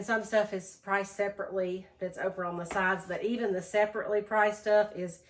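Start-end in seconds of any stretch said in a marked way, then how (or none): 3.1-5.2 out of breath. Real, not acted. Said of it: "I'm sorry if I'm getting out of breath".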